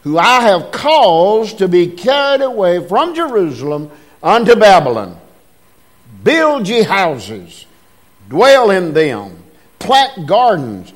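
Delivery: measured, declaiming King James reading; scripture reading. Acted. Preacher reading Jeremiah aloud to the church, declaiming. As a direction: read the verse with preaching weight.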